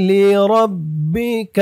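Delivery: slow melodic tajweed chant; Quran recitation. Shown as a demonstration. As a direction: draw out every vowel in recitation. Recites word slowly.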